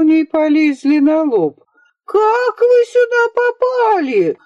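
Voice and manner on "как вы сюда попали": much higher, slow, outraged nanny's yell; shocked old nanny screeching at the boys. Acted. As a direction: howl it at the intruders, slowly. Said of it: "завопила она".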